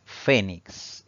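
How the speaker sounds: slow "fénix", weight on FÉ; "fénix" drawn out with a firm first syllable; penultimate stress. Shown as a demonstration. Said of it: "fuerza de voz recae".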